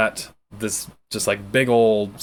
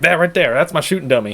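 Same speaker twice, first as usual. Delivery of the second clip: put-on excited kid voice; 5 semitones higher, 4 dB louder than usual. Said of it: "he's like".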